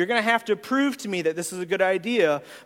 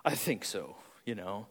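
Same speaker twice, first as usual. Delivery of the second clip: hesitant red; 5 semitones lower than usual. Retold or imitated. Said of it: "The reds are like".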